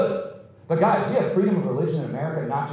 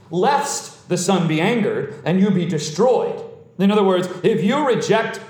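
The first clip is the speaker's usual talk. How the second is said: emphatic pulpit warning; forceful sermon voice, key words punched; impassioned preaching. Real, not acted. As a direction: warn the rulers with full conviction.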